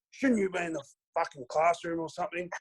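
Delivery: high-pitched mocking impersonation; Martin Pike. Opponent taunting the teenage rookie about school, imitated mockery. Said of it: "He goes".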